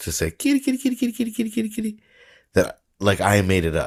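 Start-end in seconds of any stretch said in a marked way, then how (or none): 0.3-2.0 very high, quick, rapid calling voice. Showing how people call for a cat, high-pitched kitty call. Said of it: "the high pitched part".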